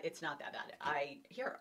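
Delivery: ordinary delivery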